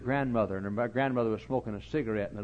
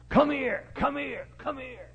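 put-on much higher, urgent little kid; excited child calling; 14 semitones higher, slower than usual. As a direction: squeak it out like an eager five-year-old. Five-year-old urgently calling preacher.

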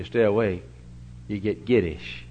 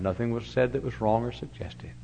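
hushed reassurance; 5 dB quieter than usual. Retold or imitated. The boy quoted praising Christian fun.

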